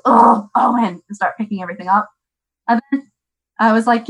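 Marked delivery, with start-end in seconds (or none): 0.0-1.0 louder, weary mock exasperation at the child; mild groan at another mess; exasperated sigh. Mom finding the shoe bin emptied again, mildly exasperated. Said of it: "I'd walk in the kitchen and be like".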